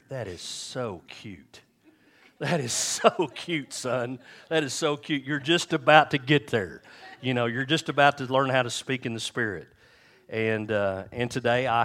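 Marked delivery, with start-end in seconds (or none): 0.1-1.6 tender God voice. Acted. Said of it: "And God says". 2.4-9.7 higher and louder, a beaming proud father; proud fatherly God. Acted. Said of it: "And God says".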